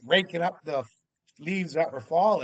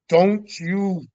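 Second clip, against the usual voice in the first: raised, firm voice laying down the law; stern warning; 3 semitones higher, 5 dB louder than usual. Retold or imitated. Husband warning wife to stay in the cabin, firm and raised. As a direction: order her to stay put, higher and louder.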